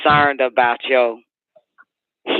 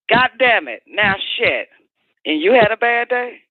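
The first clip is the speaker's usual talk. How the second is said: exasperated; 8 semitones higher than usual. Real, not acted. Heated rant continues.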